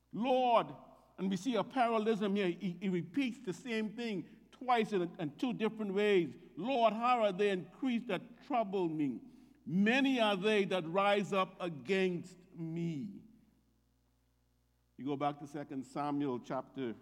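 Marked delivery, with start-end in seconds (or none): 0.1-0.7 calling on the Lord. Acted. Preacher voicing David's cry. 6.6-13.1 emphatic lament. Acted. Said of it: "David's being emphatic here".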